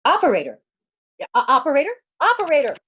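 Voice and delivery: insistent, rising calls into a dead line; calling out. Acted. Anxious woman calling into the phone for the operator, rising calls.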